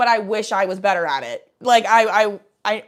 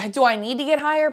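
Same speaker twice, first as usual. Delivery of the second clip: higher, sitcom-style rhetorical question; raised pitch with a touch of sitcom delivery; Chandler from Friends; 6 semitones higher, 4 dB louder than usual. Real, not acted. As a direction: lightly slip into a sitcom wisecracker's cadence. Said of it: "like I was Chandler from Friends".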